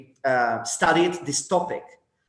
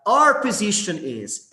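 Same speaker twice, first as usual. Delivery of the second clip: "our" pitched high and louder; stress on OUR; 5 semitones higher, 3 dB louder than usual. Shown as a demonstration. Teacher showing how to speak for a group, "our" stressed. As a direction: lean on the word "our". Contrasts group wording with solo wording.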